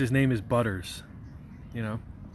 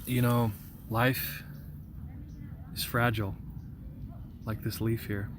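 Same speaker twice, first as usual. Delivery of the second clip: mock deep; 7 dB quieter than usual. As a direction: pretend to be deep and wise. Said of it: "Just wanna get deep".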